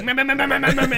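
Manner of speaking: high, loud frantic meh chant; crazed enemy yelling. Retold or imitated. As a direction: mimic a charging maniac. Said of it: "And you hear".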